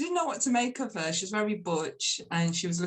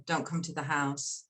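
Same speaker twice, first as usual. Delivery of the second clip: low, even disapproval; calm rejection; 6 semitones lower than usual. Retold or imitated. Horrified mother banishing her daughter, in a calm voice. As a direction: disown them calmly, without raising the voice. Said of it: "she's in a calm voice".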